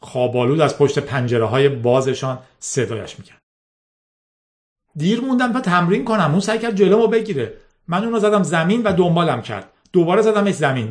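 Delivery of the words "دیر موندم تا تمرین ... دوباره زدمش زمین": put-on high, agitated girl's voice; the girl explaining the fight to her boss; upset defence. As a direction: defend yourself, voice climbing.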